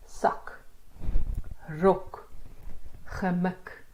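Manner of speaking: "sak", "Rok", "gemik" with the vowel cut short. Shown as a demonstration. Teacher modelling closed syllables, short vowels in "sak. Rok, gemik". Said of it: "these are short sounds".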